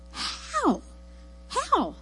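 high, small, drawn-out bafflement; baffled disbelief. Acted. Everyone reacting to his crazy luck, high mock disbelief. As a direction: squeak it in mock bewilderment.

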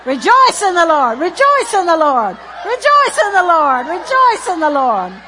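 loud, high repeated chant; preacher leading shouted praise; preaching at full force. Acted. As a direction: drive the crowd to rejoice.

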